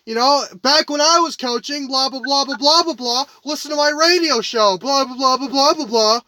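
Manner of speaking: lightly mocking radio host impression; mild mock blather, running on and on; Dan Dockich. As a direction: imitate a self-promoting commentator rambling on. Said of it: "this is Dan Dockich".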